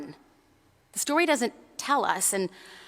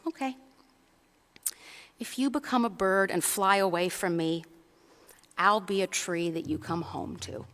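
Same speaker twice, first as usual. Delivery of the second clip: smiling tender mother; 2 semitones lower, 5 dB quieter than usual. Acted. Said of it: "Mama Bunny smiles and she says".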